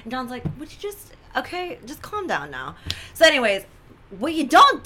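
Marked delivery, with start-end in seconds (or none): 0.6-2.8 soft imitation of a weary husband; hushed calming plea. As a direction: drop the volume and plead for calm. Husband trying to calm her down.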